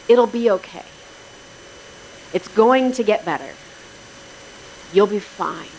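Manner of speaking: mild, measured reassurance with pauses; reassuring. Acted. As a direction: imitate someone gently consoling. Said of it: "these words of assurance".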